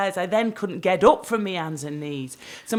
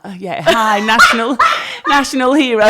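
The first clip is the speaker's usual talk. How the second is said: hammed-up hero; 4 semitones higher, 9 dB louder than usual. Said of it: "I put on a bit more of a limp".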